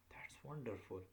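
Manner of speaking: "wonderful" stepping down in pitch; falling exclamation. Shown as a demonstration. Teacher summing up exclamations for learners, falling intonation. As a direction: let "wonderful" sink to its end. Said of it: "in exclamation".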